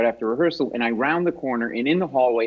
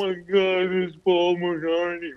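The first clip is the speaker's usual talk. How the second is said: slow, awed whisper-like gasp of a name; hushed starstruck recognition; starstruck awe; 3 semitones higher, slower than usual. Retold or imitated. Fan spotting a Beatle in the hallway, slow hushed awe. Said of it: "You're like".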